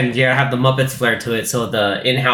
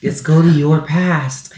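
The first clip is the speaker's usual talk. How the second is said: put-on eerie ghost child; 3 semitones higher, slower than usual. Ghost child leading Scrooge.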